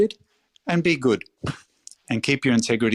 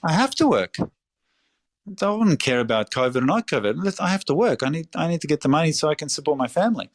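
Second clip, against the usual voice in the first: higher-pitched, incredulous protest from a hardworking parent; imitating immigrant parent; 6 semitones higher than usual. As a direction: play the parent who refuses to stop working, pitch up. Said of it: "they would go".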